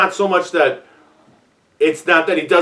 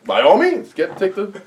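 mock polite voice; 5 semitones higher than usual. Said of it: "he's like".

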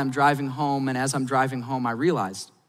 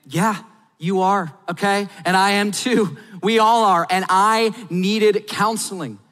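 emphatic build; 4 semitones higher, 4 dB louder than usual. Real, not acted.

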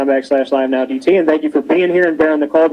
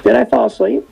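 startled question; 8 semitones higher than usual. Retold or imitated. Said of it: "I go".

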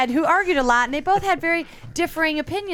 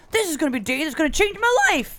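higher, giddy mock declaration; mock anticipation; 3 semitones higher, faster than usual. Imagining heading out for the night, mock anticipation. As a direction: play someone naively expecting a big day. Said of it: "I didn't go out going".

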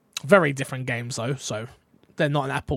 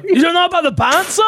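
high, fast, outraged surprise; shocked disbelief; 12 semitones higher, 7 dB louder, faster than usual. Real, not acted. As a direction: act stunned he hasn't heard. Mock disbelief at friend.

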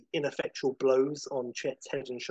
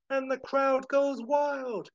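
excited narration; 12 semitones higher, 4 dB louder, slower than usual. A narrator's reading. Narration swept up in climax.

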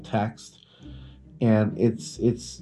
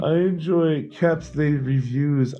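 raised, mock-refined club voice; posh reading club snob; 5 semitones higher than usual. Host mocking a snooty book club member, higher and hammed-up. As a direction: play a pompous book snob bragging.

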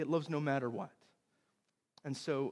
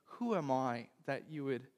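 understated, grateful disbelief; humbled; 4 dB quieter than usual. Retold or imitated. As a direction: ask it in humble wonder, with a pause. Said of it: "I was actually humbled by that".

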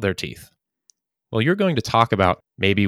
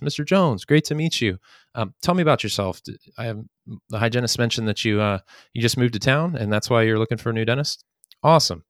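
very positive greeting; 2 semitones higher than usual. Shown as a demonstration. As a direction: greet Mister Jones brightly like meeting a friend. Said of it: "You're, you're very positive initially".

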